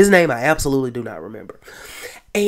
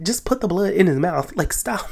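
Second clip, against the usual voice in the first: exasperated laugh; 3 semitones higher than usual. Retold or imitated. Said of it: "I was like".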